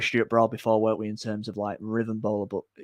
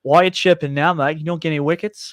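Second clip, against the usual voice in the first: higher, louder mock South African sledge; South African accent; 5 semitones higher, 6 dB louder than usual. Sledging an English bowler in a South African accent. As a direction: throw a cheeky South African chirp at the batter. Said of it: "you love an accent, don't you?".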